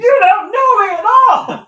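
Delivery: high, loud shout; mock outburst. Friend butting into the cat-name story, hammed-up high shout. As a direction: yell it in over-the-top protest.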